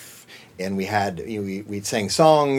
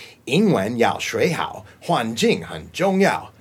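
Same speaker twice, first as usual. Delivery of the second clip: commercial read; slower than usual. Shown as a demonstration. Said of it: "the one that I got most famous for".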